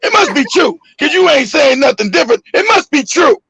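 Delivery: high-pitched imitated holler. Mom insists to her son that it's true, hollering. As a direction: pitch it up like an accusing mother. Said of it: "She started hollering".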